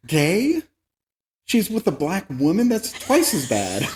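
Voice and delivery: high, scandalised fake outrage; mock bigot outrage. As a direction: play a clutching-pearls bigot as a joke. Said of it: "That was a joke, everyone".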